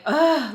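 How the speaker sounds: loud, disgusted "ugh"; exasperated groan. Real, not acted. Venting to viewers about the dreaded lunch, exasperated groan.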